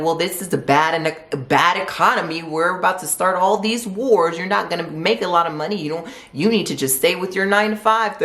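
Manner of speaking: a mock Southern naysayer, hinted; Southern accent. Imitating doubters who discourage a new business, light Southern accent. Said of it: "I don't know why I sound Southern".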